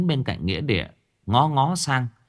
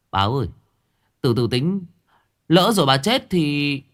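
teasing grin; 7 semitones higher, 5 dB louder than usual. Acted. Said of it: "Nó cười cười bảo".

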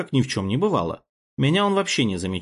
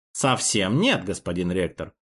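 haughty; 5 semitones lower than usual. Acted. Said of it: "высокомерно заявил принц".

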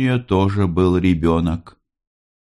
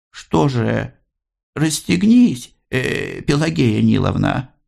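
higher, coaxing Maria voice; gentle peasant request; 8 semitones higher, slower than usual. A narrator's reading. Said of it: "тихо попросила мать".

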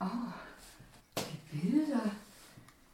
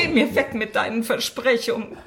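scornful; 2 semitones higher, 5 dB louder than usual. Acted. Wife quarrels with husband.

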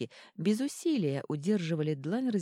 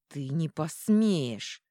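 slow, louder hissed threat; 5 dB louder, much slower than usual. Acted. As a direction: hiss it through your teeth. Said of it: "прошипел герцог".

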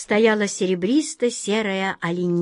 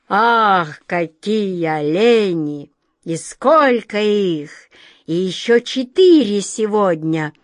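gloating king; 4 dB louder than usual. Acted. King gloats over the hunt.

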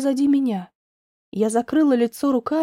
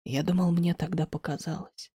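soft, lower, thoughtful; Alex quietly recalls what he saw; 6 semitones lower, 6 dB quieter than usual. A narrator's reading. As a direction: say it quietly, almost to himself. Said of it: "Тихо проговорил Алекс".

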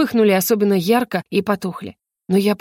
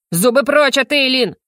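higher, forceful warning; protective outcry; 5 semitones higher, 3 dB louder than usual. Acted. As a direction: cry out to drive the beast back. Yo-Yo leaps between dragon and heroine. (грозно, с вызовом выкрикивает)

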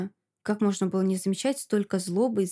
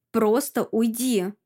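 slow, forceful mild yell; shout; slower than usual. Acted. Masha ordering Alka to leave, mildly shouting. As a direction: push her out with words, slowly. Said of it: "кричу на неё".

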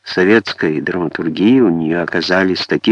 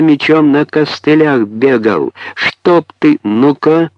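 much higher, outraged storybook yell; high-pitched cursing cry; 7 semitones higher, 4 dB louder than usual. A narrator's reading. Woman with the wool cursing a careless boy, high cry. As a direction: hurl curses on a top note. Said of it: "криком, на самой высокой ноте".

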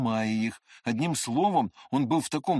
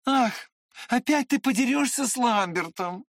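worried; 11 semitones higher than usual. A narrator's reading. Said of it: "с беспокойством заметил мальчик".

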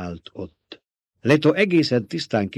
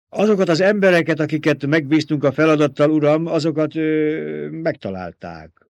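higher, louder report, slowing at the end; hesitant reporting henchman; 5 semitones higher, 5 dB louder than usual. A narrator's reading. Peter reporting on the men sent out, hesitant. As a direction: report loudly, then falter.

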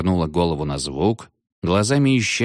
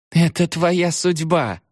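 much higher, slow, cackling witch line; laughing witch; 11 semitones higher, slower than usual. A narrator's reading. The witch mocking the captain, laughing. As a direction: gloat over him with a cackle. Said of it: "расхохоталась ведьма".

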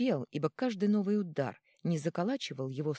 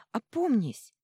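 sudden high, loud cry; wife shouts her husband's name in alarm; 7 semitones higher, 6 dB louder, slower than usual. A narrator's reading. Wife's cry continues.

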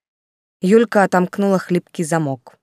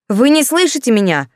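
louder, higher indignant outburst; flaring up; 7 semitones higher, 5 dB louder than usual. Acted. Yulka flaring up at the commandant, loud and indignant. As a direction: raise your voice and flare. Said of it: "взвилась Юлька, переходя тоже на повышенный тон".

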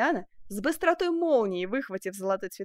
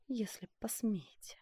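slow, softer whispered threat; a hushed, slow dare; barely audible; 9 dB quieter, slower than usual. A narrator's reading. Duchess warning the sculptor, whispered threat. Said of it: "чуть слышно добавила".

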